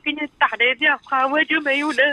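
tearful caller, slightly subdued; upset and weepy; real crying. Real, not acted. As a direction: speak through tears to a confidant. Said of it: "别哭，别哭啊".

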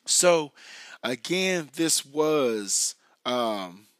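hoarse, scratchy voice; talking through a sore, raspy throat. Real, not acted. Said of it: "raspy voice guy tonight".

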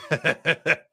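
mock angry laugh then a curse; hammed-up bitter chuckle into a muttered curse. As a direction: laugh bitterly, then swear under your breath. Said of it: "angry laughed".

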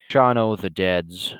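"Shaun o' the Deads" read slowly, with a plural s tacked on; copypasta misspelling. Retold or imitated. Quoting a copypasta, he says "Shaun o' the Deads" mockingly. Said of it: "as my copy pasta calls him".

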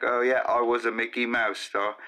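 lightly put-on British accent. Joking about Mickey Mouse books, British accent. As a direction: slip into a casual British voice. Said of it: "I don't know why everybody's British today".

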